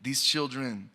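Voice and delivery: measured, rhythmic spoken word delivery; slam poem recitation. Acted. Poet reciting to the audience, rhythmic spoken word. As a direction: perform the poem to a listening room.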